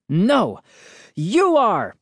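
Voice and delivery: high-pitched angry retort; shrieked. A narrator's reading. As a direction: throw it back in a mild shriek. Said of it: "my father shrieked".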